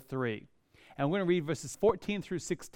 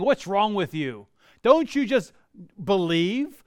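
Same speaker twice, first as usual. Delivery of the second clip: mock rebuke; 3 semitones higher, 5 dB louder than usual.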